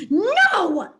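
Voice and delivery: sharp, high, loud no; sharp shout. Acted. A cat shouting sharply over the noisy crowd. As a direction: cut through the din. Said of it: "Sharp voice rises above the din".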